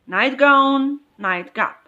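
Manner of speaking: "Nightgown, nightcap" with the weight on "night"; stress on first part. Shown as a demonstration. Teacher showing noun stress, "Nightgown" and "nightcap" stressed on "night". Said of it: "the stress falls on the first word".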